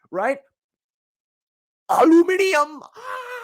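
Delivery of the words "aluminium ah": high, loud exaggerated Indian accent; mock Indian accent. Podcaster parodying accent skits, shrieky Indian accent. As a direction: shout it in a hammed-up Indian accent, then squeal. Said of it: "English words in an Indian accent".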